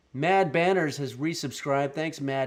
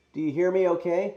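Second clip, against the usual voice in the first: loud, high, through the helmet; muffled in helmet; 5 semitones higher, 7 dB louder than usual. Real, not acted. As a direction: check the mic through a welder's helmet. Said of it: "Might need a sound test with the helmet".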